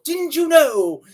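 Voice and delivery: sarcastic drawn-out question; mock sarcasm. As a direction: tease them for not knowing.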